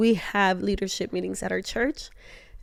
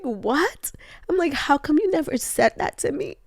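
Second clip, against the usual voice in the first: voiceless, breathy disbelief; hurt sister asking her brother, whispered disbelief; stunned whisper; 6 semitones higher than usual. Retold or imitated. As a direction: gasp the words out without voice. Stunned reaction retold.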